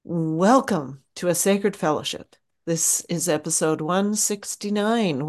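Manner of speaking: even, scripted welcome read; podcast intro read. Acted. The hosts welcome listeners in a scripted intro read. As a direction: read the show's opening script.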